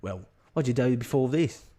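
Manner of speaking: attempted Cockney accent; put-on Cockney question. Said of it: "I'm gonna try and do a cocky accent".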